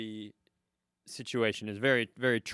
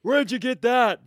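high, loud put-on old man; old man character; 9 semitones higher, 8 dB louder than usual. Old man starting another outfit heckle, loud caricature. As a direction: call it out as a cartoon geezer. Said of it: "It's an old man who".

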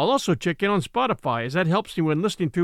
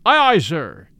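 louder first mate's answer; first mate answering Ahab, firm and louder; called reply; 7 dB louder, slower than usual. Acted. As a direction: answer the captain firmly. Starbuck answers his captain.

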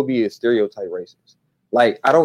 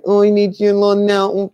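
imitating a stereotyped Asian accent, high; high put-on Asian accent mimicry; mock Asian accent; 8 semitones higher, 4 dB louder than usual. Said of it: "he do the Asian accent".

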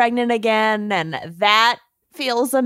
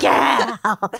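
put-on Minnesotan accent. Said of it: "unleash their worst Minnesotan accents".

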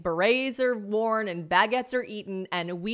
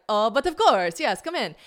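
welcoming waiter in badly faked French accent; 5 semitones higher, 7 dB louder than usual. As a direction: raise the pitch, put on French accent. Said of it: "I'm gonna fuck up the French accent".

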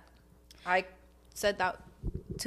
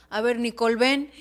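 raised mock parental call; imitated summoning dad; 4 dB louder than usual. Daughter imitates dad calling her over, mildly stern.

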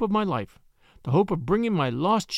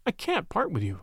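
pleading; 2 semitones higher, 4 dB quieter than usual. Acted. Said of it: "I pleaded".

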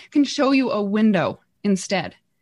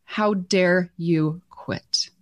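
a hint of God scolding, drawn out; 2 semitones lower, slower than usual. God rebuking her for wanting to quit, slow and stern. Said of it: "God whispered to me and said".

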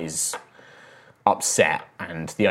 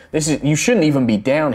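raised, startled rebuke; surprised; 7 semitones higher, 7 dB louder than usual. Acted. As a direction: caught off guard, louder. Shocked knight scolding intruders.

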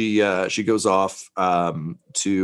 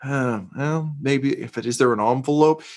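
lightly voiced dithering card shopper; a hint of a befuddled idiot; mock idiot; 4 semitones higher than usual. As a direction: imitate someone puzzling aimlessly over cards. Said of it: "looks like a weird kind of idiot".

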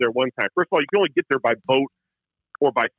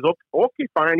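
put-on Newfoundland accent; 2 semitones higher than usual. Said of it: "He talks like this".

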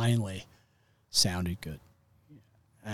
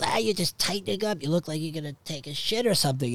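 imitating dad's blunt criticism, higher; blunt dad, acted out in a higher voice; super blunt; 7 semitones higher than usual. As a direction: blurt the critique, pitched up and quickening. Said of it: "he just was, like, super blunt".

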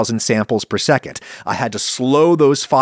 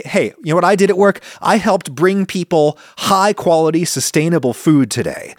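proud excited worker; 5 semitones higher than usual. Retold or imitated. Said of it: "They say".

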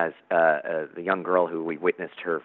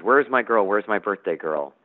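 calling downstairs; 3 semitones higher than usual. Acted. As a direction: call out to his daughter as a cheerful dad. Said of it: "as the father comes down".

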